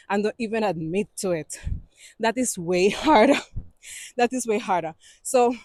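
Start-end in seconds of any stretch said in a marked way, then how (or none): 2.2-3.4 laughing through the words. Real, not acted. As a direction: chuckle on harder. Laughs mid-phrase.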